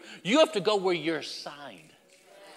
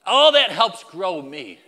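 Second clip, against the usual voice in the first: slow emphasis; 7 dB louder, slower than usual. Real, not acted.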